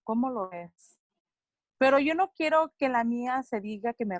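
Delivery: measured spoken-word reading with falling line ends; poetry recitation. Acted. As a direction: recite it phrase by phrase, with pauses between lines. Recites own bilingual poem.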